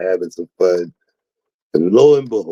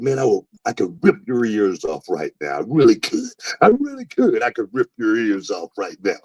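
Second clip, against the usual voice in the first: retold threat; 4 semitones higher than usual. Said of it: "I got so mad".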